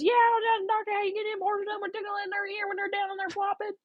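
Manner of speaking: put-on very high, fast country accent; mock rapid-fire South Carolina country accent. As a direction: gabble like an excited country caller. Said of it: "kinda country accent".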